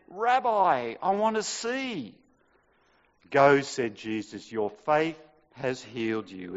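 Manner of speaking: lively, dramatic Bible reading; scripture reading. Acted. Preacher reading the gospel to the congregation, dramatic. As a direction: read the passage out with feeling. Reads the gospel passage aloud.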